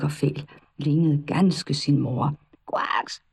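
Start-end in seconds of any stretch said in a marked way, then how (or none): 2.7-3.2 short breathy croak; a quick unvoiced frog croak; toad croak. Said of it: "Det var alt, hvad han kunne sige". (kort hæst kvæk)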